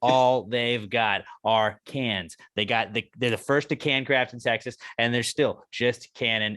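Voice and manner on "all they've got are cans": ad read. Acted. Sponsor ad read.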